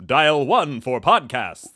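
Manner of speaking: slow, stiff phone-menu robot; slow, canned recorded-message voice; automated phone menu voice. Pretend. Mocking robotic podcast announcer.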